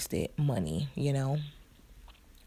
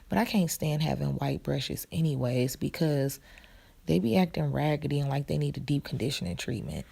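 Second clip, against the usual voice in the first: talking while chewing gum; chewing gum between words; 2 semitones lower than usual. Real, not acted. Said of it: "I'm chewing gum".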